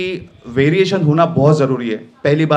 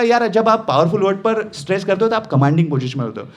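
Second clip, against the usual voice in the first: rushed, unstressed take. Shown as a demonstration. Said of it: "वो खत्म ही कर दिया".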